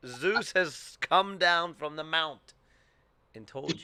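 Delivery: hammed-up oracle voice; mock proclamation. Teasing friend with a slow, grand mock proclamation.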